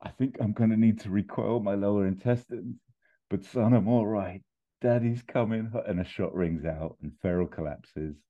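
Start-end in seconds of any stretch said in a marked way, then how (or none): 0.0-5.7 lightly voiced wounded father, a little high; hint of agony as he reassures his son; Mustafa. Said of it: "but he looks in agony".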